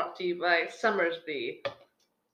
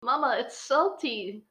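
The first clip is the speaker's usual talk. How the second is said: cat voice; 5 semitones higher, 4 dB louder, slower than usual. Pretend. Voicing the cat.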